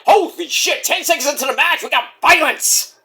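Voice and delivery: high, excited holy shit; thrilled that the match turns violent; excited yell. Retold or imitated. Fan recalling the opening spot, excitedly.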